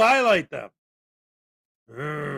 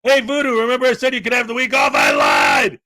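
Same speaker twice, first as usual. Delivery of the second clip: mock villain order; 4 semitones higher, 6 dB louder than usual. Mock order to tase a viewer.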